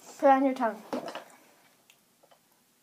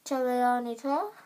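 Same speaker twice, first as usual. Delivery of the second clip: cheeks stuffed full. Real, not acted. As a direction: mouth crammed with marshmallows. Mouth packed with marshmallows.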